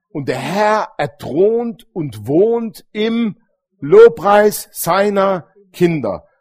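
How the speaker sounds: very slow, each word drawn out and loud on "Lobpreis"; slow solemn proclamation. Shown as a demonstration. Preacher proclaiming to his congregation, very slow and solemn. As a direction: stretch "er thront und wohnt im Lobpreis seiner Kinder" out word by word, leaning hard on "Lobpreis". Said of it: "Der Herr thront und wohnt im Lobpreis seiner Kinder".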